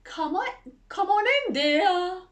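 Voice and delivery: mock growl, actually high and loud; a hammed-up wolf pretending to be sweet; high, loud put-on granny voice from the wolf. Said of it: "growled the wolf".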